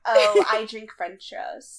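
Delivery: slow, dreamy airhead; airheaded Monique. Retold or imitated. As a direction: drawl it like an airhead. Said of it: "explains it".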